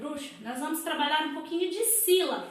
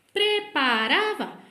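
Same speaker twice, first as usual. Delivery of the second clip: slow syllables; much slower than usual. Shown as a demonstration. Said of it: "Uma, duas, três, quatro".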